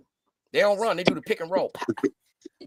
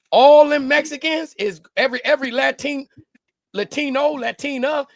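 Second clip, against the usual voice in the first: higher and louder, getting worked up; building hype; 5 semitones higher, 4 dB louder than usual. Retold or imitated. Joking to friends about Chicago, hyped build-up. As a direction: ramp it up like a punchline coming.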